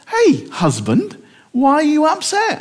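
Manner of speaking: Jezebel to husband. Retold or imitated. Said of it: "Jezebel comes up to him and goes".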